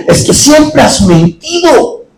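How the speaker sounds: lento reproche de padre, actuado; reproche paterno. Retold or imitated. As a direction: imita a un padre que regaña despacio. Padre regaña a la niña. (regaño de padre, imitado)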